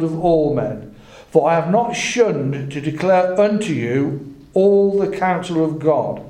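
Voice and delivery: deliberate, lifted Bible-reading voice; scripture reading. A narrator's reading. Preacher reads Paul's farewell to the elders, deliberate scripture reading. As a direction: read scripture out, phrase by phrase.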